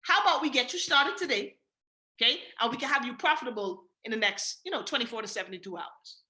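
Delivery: calm assured sales pitch, taking the yes for granted; confident closer. Shown as a demonstration. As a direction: assume the close in a calm, steady voice. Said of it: "So I'll say".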